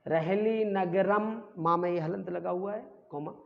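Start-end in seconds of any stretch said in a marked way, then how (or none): 0.1-1.4 "रहली नगरम" slowly drawn out; teacher's slow model of "रहली नगरम"; pronunciation demo. Shown as a demonstration. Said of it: "इसका उच्चारण कर लेते हैं".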